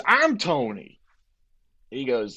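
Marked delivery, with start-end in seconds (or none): 0.0-1.0 lightly imitated Boston bar boss, pitched up; Tony. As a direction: replay the bar owner introducing himself.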